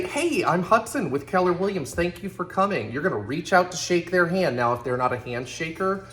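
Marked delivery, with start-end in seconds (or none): 0.0-2.9 higher-pitched, self-assured welcome with energy; energetic, confident greeting. Shown as a demonstration. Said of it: "greet them with energy and confidence".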